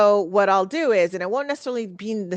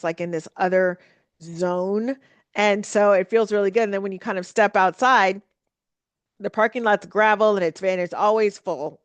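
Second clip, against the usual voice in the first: ordinary talk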